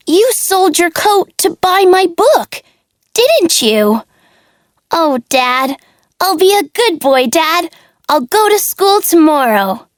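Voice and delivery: put-on high, pleading little puppet boy; childlike puppet voice. Pinocchio apologises to his father, high pleading child voice.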